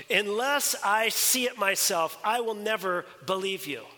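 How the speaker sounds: measured, insistent refusal; emphatic disbelief. Acted. Thomas tells the disciples he must see it himself, emphatic. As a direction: lay down a firm condition, word by word. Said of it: "why is Thomas so emphatic".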